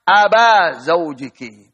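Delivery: slow, deliberate "aba zaujiki" with a open a where u belongs; wrong reading aba. Shown as a demonstration. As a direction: spell out "aba" slowly as the mistake. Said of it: "Tidak boleh baca".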